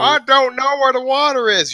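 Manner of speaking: dopey high voice; dumb character voice. Retold or imitated. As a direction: play it dim and clueless. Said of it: "Stop playing a dumb character".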